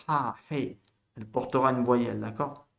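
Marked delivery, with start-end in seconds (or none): 0.1-0.8 "Ha, hey" with a light aspirated H; small puff of breath. Shown as a demonstration. Teacher shows how breath joins the vowel, aspirated H in "Ha, hey". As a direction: put a little breath before each vowel. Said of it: "tu mets un petit souffle à la voyelle".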